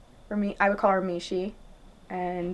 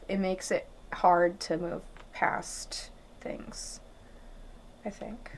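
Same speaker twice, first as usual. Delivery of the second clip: soft near-whisper; 6 dB quieter, slower than usual. Real, not acted. Reflective remark on love and doubt.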